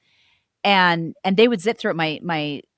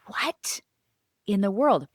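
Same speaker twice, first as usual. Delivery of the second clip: retold disbelief; 3 semitones higher, slower than usual. Mother's stunned reaction retold.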